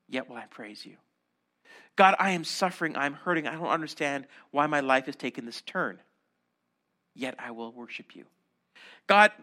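each yet dropped to a hush; intimate prayer. Acted. Voices a prayer of lament.

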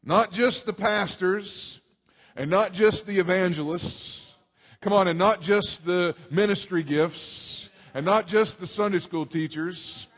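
slow, punching each "just"; preaching emphasis. Acted. Pastor telling the church everyone shares the task, emphatic. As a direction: build the list, pressing "just" every time.

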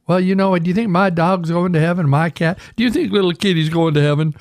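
a hint of an earnest pet owner asking; people asking. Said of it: "People always ask me that".

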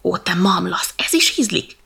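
a huffy, half-whispered jibe; mildly exasperated monkey. Acted. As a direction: scoff at the elephant. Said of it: "pukkancskodott a majom".

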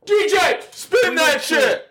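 high, slow hype yell. Acted. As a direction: belt it out to the DJ. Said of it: "We're gonna yell it".

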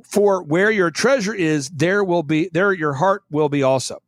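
slow, measured Bible recitation; scripture reading. Acted. Host reads Matthew to podcast listeners, slow solemn recitation. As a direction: read the verses slowly like scripture.

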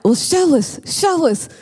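high, demanding chick voice; little birds pushing back, high; baby birds. Acted. Baby birds demanding mama prove it, high and insistent.

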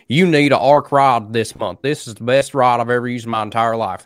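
mocking Cincinnati accent. Pro angler pitching a rod to fans, in a mocking Cincinnati accent. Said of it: "Cincinnati accent".

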